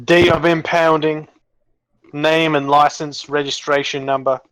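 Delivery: Cockney car guard asking for details; lightly Cockney official; attempted Cockney. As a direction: put on an amateur Cockney accent. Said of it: "I can't do a very good Cockney accent".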